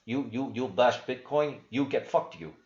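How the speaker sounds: a put-on Russian accent, broken English; mock Putin in a thick Russian accent; fake Russian accent. Host mocking Putin threatening Bitcoin critics in fake Russian accent. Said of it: "fake Russian accent".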